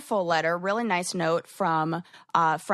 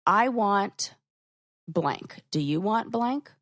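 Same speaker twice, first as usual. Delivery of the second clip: masculine direct; 2 semitones higher, slower than usual. Shown as a demonstration. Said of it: "matches a more masculine energy".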